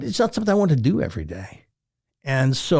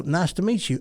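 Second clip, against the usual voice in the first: higher-pitched put-on Southern greeting; Southern accent; 6 semitones higher than usual. Radio host meeting listeners, putting on Southern accent. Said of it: "guy with a Southern accent".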